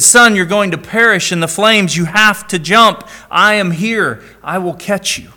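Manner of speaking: father pleading with his son below the window. Acted. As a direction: beg him to trust you and jump. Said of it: "The father pleaded".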